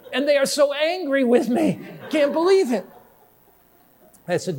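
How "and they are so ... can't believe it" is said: higher voice breaking into laughter; laughing disbelief. Retold or imitated. Convert tells pastor relatives are angry, laughing high. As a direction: laugh through the words in disbelief.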